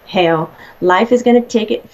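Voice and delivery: light Southern drawl on hell, life is gonna take it; a touch of Southern country drawl; Southern twang. Retold or imitated. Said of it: "you started having that little Southern drawl".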